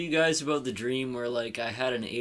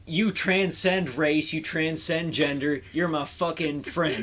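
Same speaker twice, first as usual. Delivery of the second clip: retold drunken insistence, higher and louder; emphatic declaration; 5 semitones higher, 7 dB louder than usual. Retelling his pledge to a friend, emphatic and loud. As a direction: drive home each phrase like a drunken pledge.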